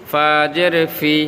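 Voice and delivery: 'ফি' kept short, no drawn vowel; quick, unstretched. Shown as a demonstration. Teacher shows the correct way, 'ফি' quick and unstretched. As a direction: say 'ফা জের ফি' briskly without dragging. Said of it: "দ্রুত".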